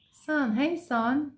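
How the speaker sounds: "Son, hey son" slowed with uh vowel. Shown as a demonstration. Teacher modelling the U sound, slow son. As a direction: draw out "son". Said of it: "Son, that's another one".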